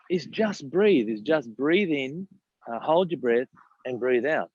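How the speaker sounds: slow, steady breath cue with "breathe" drawn out; slow calm coaching voice on "breathe"; calm breathing guide. Shown as a demonstration. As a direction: coach them gently through "breathe in". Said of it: "demonstrates the breathing".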